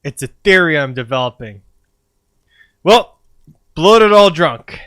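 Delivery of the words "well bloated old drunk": drawn-out savouring. Acted. Savouring the insult slowly.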